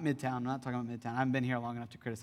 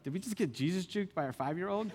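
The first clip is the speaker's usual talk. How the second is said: startled; 5 semitones higher than usual. Retold or imitated. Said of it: "kinda startled".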